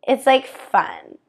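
put-on slow, creaky valley-girl fun; vocal fry. Shown as a demonstration. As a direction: stretch it out in fry. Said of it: "How much vocal fry can I use".

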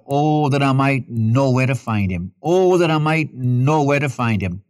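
understated imitated lament; mild crying out. Preacher quoting Job's longing to find God, mild crying out. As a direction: cry out lightly, as if searching for someone. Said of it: "where Job cries out".

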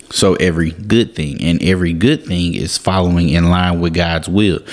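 "good" carries the weight in "every good thing"; stress on good. Shown as a demonstration. Podcast preacher repeating the verse's point, "good" stressed. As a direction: land on "good" each time. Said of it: "Emphasis on the word good".

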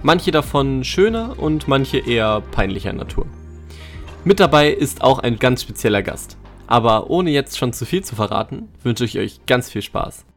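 scripted podcast presenter voice; episode intro read. Acted. Host invites listeners on a treasure hunt, scripted intro read.

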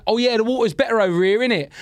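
casual, slangy London talk; London accent. Shown as a demonstration. Comedian showing how he normally talks before going abroad, London accent. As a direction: say it in loose London speech. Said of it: "instead of saying".

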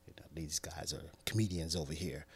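unvoiced whisper; whispered aside. Real, not acted. Host whispering about pranking crew, whisper. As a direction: whisper it to the listeners.

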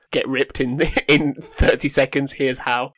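slow hyped-up clickbait pitch; clickbait video narrator. Pretend. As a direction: sell it like a viral ad. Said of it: "One of those sort of BuzzFeed articles".

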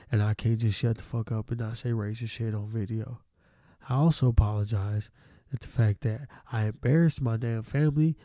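lightly mocking formal apology. Voicing the students' ideal apology, mock formal read. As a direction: read it as a fake sincere statement. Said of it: "this is what I think they should have said".

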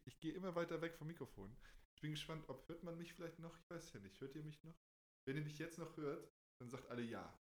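calling back from across the room; far from mic. Shown as a demonstration. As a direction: voice fading as he walks away. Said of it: "wenn ich jetzt so ganz langsam weggehe".

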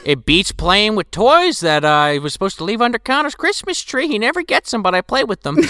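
Santa voice. Retold or imitated. Spoofing Santa's lines.

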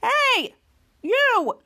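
high, loud challenge; heroic call-out. Retold or imitated. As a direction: call out the villain. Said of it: "Kid Danger's like".

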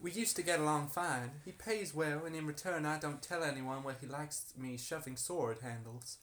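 put-on harlot character in an American accent. Harlot answering why she is accused, put-on American accent. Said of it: "This is very American".

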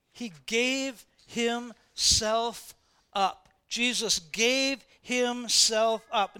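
very slow and deliberate on gave; slow emphasis. Acted. Preacher dwells on Jesus giving himself up, very slow. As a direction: stretch out gave himself up slowly.

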